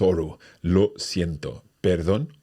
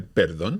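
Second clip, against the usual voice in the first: perdón with the weight on "dón"; perdón, stressed at the end; stress on the last syllable. Shown as a demonstration. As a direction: lean on the final "dón" of perdón. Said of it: "remember our accent there".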